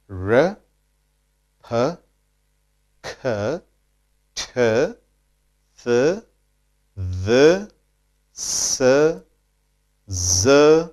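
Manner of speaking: R, P, K, T, Th each as a bare sound with a short vowel, not letter names; isolated consonant sounds. Shown as a demonstration. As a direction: demonstrate R, P, K, T, Th one by one, long pauses, each lifting in pitch. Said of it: "most important consonant sounds you should study first".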